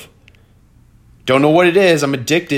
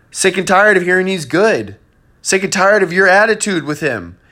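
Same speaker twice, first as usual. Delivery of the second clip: exasperated rant; 5 semitones higher than usual. Real, not acted. Ranting at friend over Matt Ryan.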